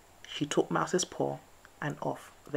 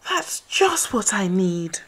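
grumbled; 5 semitones higher, 8 dB louder, slower than usual. A narrator's reading. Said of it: "he sighed".

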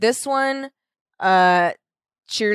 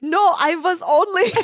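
a hint of a German accent, higher and slow; German accent slipping; 9 semitones higher, 3 dB louder than usual. Nazi son pleading with Linda, hint of German accent. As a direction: lightly let the German accent leak out. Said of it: "his accent suddenly comes out".

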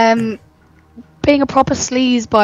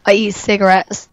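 croaky voice. Real, not acted. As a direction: croak it out, hoarse and husky. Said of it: "croaky voice".

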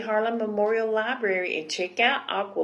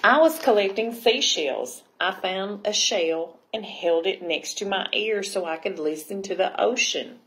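lively, projected picture-book reading; story narration; 4 dB louder than usual. A narrator's reading. Librarian reading Aqualicious to children, animated storytelling. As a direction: read it out clearly to young listeners.

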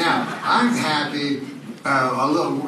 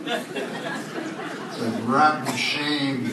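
pitying onlooker; 4 dB quieter, much slower than usual. Retold or imitated. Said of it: "They go".

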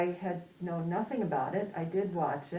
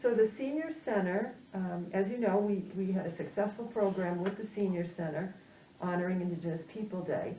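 muffled speech behind a mask; talking through a mask, slightly muffled; through a face mask. Real, not acted. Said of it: "it feels a little awkward to be talking through this mask".

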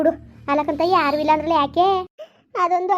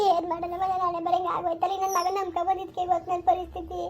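softer, tearful lament; quiet despair; 6 dB quieter than usual. Acted. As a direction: lament in a lowered voice, ending near a sob. Acted despair, betrayed and left helpless.

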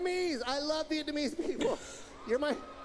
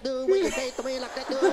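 put-on fast Vietnamese accent; 2 semitones lower, 7 dB louder than usual. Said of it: "real fast, like".

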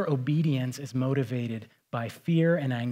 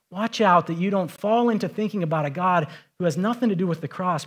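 ordinary delivery

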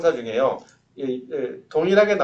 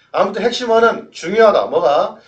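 emphatic; 7 semitones higher, 9 dB louder than usual. Acted. Teacher emphasising key idea.

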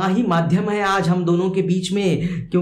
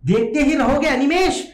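poem recitation; 8 semitones higher, 3 dB louder than usual. Acted. Teacher voices the poet addressing the baby, high poem recitation. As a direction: recite the line raised and sustained. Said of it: "वो कह रहे हैं".

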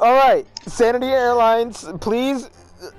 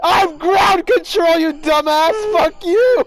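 angry shout; 5 semitones higher, slower than usual. Acted. Heated mock argument, shouting.

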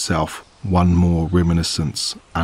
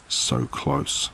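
whispered; 5 semitones lower, 7 dB quieter than usual. Acted. Narrator whispers her thought.

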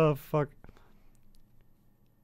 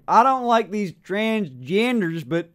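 put-on imagined bigoted old fella; 4 semitones higher, slower than usual. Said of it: "you know, those types of people".

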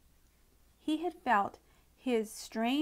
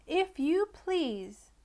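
polite; 7 semitones higher, 3 dB louder, much slower than usual. A narrator's reading. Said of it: "very politely".

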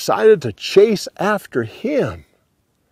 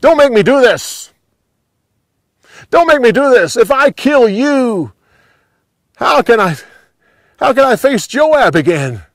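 high, loud pleading yell; yelled back; 9 semitones higher, 5 dB louder than usual. A narrator's reading. Abner warns off his young pursuer, yelling back. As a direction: shout it back as a desperate warning. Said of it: "Abner once again yelled back".

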